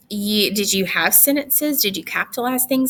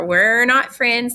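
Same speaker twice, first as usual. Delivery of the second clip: "not" hit hard, louder and slow; stress on not; 5 dB louder, slower than usual. Real, not acted. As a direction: lean on "not" firmly, slowly.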